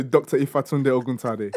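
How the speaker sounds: Yoruba name pronunciation. Shown as a demonstration. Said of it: "the proper accent".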